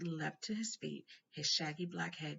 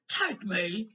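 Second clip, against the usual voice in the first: trembling question; 5 semitones higher, 11 dB louder than usual. A narrator's reading. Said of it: "who was trembling".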